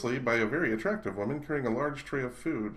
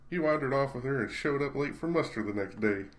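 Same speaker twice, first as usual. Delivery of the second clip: Southern drawl; 4 semitones higher than usual. Acted. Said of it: "I should do the voices".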